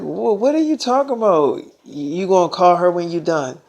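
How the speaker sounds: mock-indignant jealousy; jealous girlfriend. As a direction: imitate a jealous girlfriend objecting. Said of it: "that's when Storm Reed got jealous".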